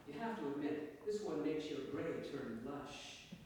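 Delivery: measured literary story reading, lilting in pitch; story narration. A narrator's reading. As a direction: read your short story to an audience. Reads own story to audience.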